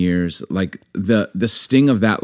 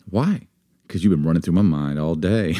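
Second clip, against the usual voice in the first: cheesy pickup line; 4 semitones lower, 3 dB quieter than usual. Acted. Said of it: "These pickup lines are terrible".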